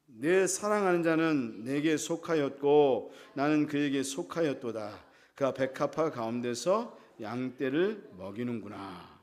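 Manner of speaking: slow, low, measured congregational reading; drawn-out formal Bible reading; scripture reading. Acted. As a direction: read the verse out solemnly, word by word. Reads scripture aloud.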